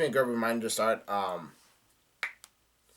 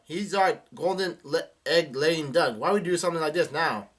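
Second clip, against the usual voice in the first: retold yell; 4 semitones higher, 4 dB louder than usual. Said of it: "Buggy yells out".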